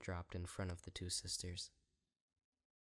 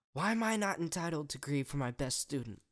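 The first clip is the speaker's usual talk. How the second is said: high, loud indignant outburst; raised angry voice; furious; 8 semitones higher, 9 dB louder than usual. A narrator's reading. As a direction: demand your right to grieve. Celestia furious at Luna.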